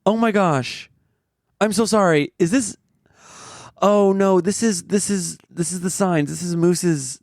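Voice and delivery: high, apologetic mock vet voice; flustered vet. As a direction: gush sorry like a panicked doctor. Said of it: "they're like".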